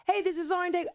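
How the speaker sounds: high-pitched radio liner greeting; squeaky, put-on radio hello; going up high. Shown as a demonstration. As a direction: pitch the station ID way up. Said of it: "why do I always go up".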